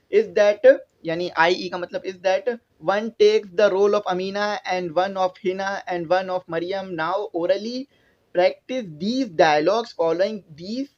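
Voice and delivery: slow, deliberate reading of the instruction; slow textbook reading. Acted. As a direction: spell out each English word for the class. Reads English task aloud slowly. (कक्षा के लिए किताब से धीरे-धीरे पढ़ना)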